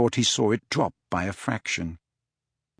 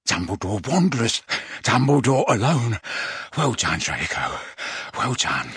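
gloating sister. Acted. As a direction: savour every word, mocking. Gloating Death Eater sister.

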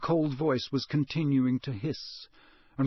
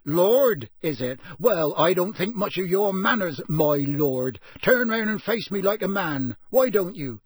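loud, raised, scornful challenge; rough; 5 semitones higher, 6 dB louder than usual. A narrator's reading. Intruder mocking the lord's manners, roughly. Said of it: "said Frank roughly".

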